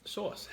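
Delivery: "Sauce." said high, a mock copy of the other's vowel. Shown as a demonstration. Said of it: "how else are you supposed to say sauce".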